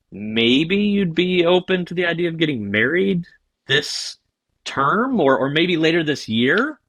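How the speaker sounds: mock-earnest proposal with hesitant pauses; cringy proposal. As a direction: stumble hopefully through an ill-judged come-on. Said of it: "does that just sound absolutely cringy".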